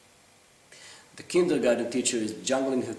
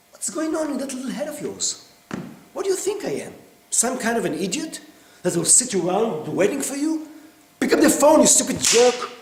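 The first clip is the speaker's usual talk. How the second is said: much higher and louder, spiralling into a scream; screaming rage; 12 semitones higher, 9 dB louder than usual. Acted. Husband explodes at his wife for coming home late, screaming. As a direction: let it boil over until it breaks.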